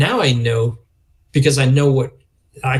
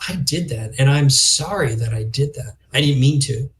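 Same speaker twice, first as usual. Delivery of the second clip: sincere apology. Shown as a demonstration. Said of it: "But geez".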